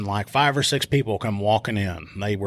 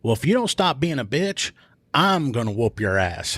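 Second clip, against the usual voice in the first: threatening; 3 semitones higher than usual. Retold or imitated. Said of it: "she goes".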